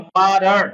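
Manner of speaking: "ওয়াটার" with a tapped d in the middle; pronunciation demo. Shown as a demonstration. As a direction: say "ওয়াটার" as wa-dar. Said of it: "উচ্চারণ কি বললাম".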